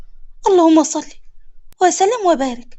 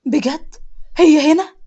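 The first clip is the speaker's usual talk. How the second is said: can't believe his luck, thrilled; happy burst of disbelief; overjoyed; slower than usual. Acted. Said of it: "جاسر بفرحة".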